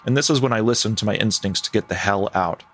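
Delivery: measured first-person storytelling; story narration. A narrator's reading. Host reading a camper's story to co-host, measured narration. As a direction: read it like a campfire tale. Reads a camping story aloud.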